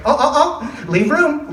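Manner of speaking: hammed-up teacher's aide warning kids apart. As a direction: wag a finger as the prim teacher's aide. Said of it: "she's like".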